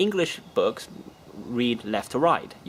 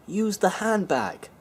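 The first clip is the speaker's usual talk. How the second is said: mock game hint; 8 semitones higher, slower than usual.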